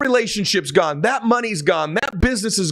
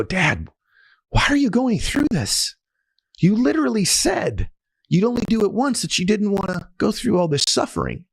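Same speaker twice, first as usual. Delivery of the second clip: pleading son; 5 semitones higher than usual. Retold or imitated. Son pleading with dying father.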